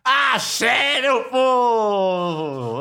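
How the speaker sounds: high, loud cry with the last word held long; shouted greeting. Real, not acted. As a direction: call out to the crowd, stretching the final vowel. Shouted greeting opening the show.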